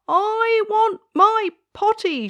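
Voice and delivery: high, loud, slow urgent wail; crying out. Acted. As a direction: wail it out for the potty. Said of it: "she cried".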